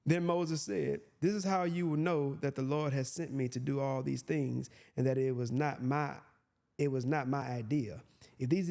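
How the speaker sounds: measured Bible reading voice; scripture reading. Acted. Preacher reads the verse to listeners, measured. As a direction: read it out as holy text.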